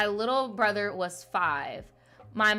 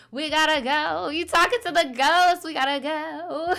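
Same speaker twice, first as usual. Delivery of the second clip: mock panic; 6 semitones higher, 5 dB louder than usual. Spooked by the ghost story.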